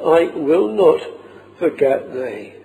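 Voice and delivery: "I will not" held up firmly, then "forget thee" dropping; stress on "I will not". Shown as a demonstration. Preacher showing the congregation the emphasis on "I will not". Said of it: "see the emphasis on that".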